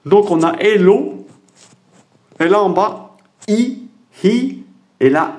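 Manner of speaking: « l'o », « i », « hi » lus lentement et haut; détacher chaque son pour les élèves; lecture lente et aiguë. Shown as a demonstration. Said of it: "c'est un i". (déchiffrage lent, voix montée, « i » très aigu)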